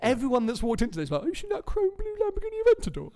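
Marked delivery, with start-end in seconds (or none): 1.2-3.1 hammed-up Bristolian accent, pitched way up; a jokey Bristolian local gushing over the Lamborghini in Bristolian accent. Mimicking visitors gushing about the car in a Bristolian accent. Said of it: "that was my Bristolian accent".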